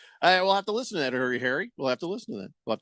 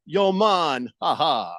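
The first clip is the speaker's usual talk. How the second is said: lightly put-on Jamaican accent; mock Jamaican accent; much slower than usual. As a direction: read it in a fake Jamaican accent. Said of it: "stop with the Jamaican accent".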